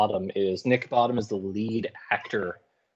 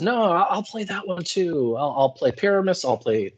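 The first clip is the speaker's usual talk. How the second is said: imitating boastful Bottom; 5 semitones higher than usual. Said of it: "Bottom says".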